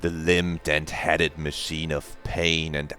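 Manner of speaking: slow, measured narrator voice; voice-acted game narration. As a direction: linger on the phrases like an ominous narrator. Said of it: "the voice acting sounds kind of like this".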